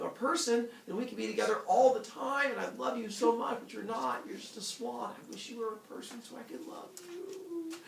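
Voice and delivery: high, gushing lovelorn voice; lovelorn girl. Retold or imitated. Girl tells swan she loves it, high and lovelorn. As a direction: pour out mock lovesick longing in a high pitch.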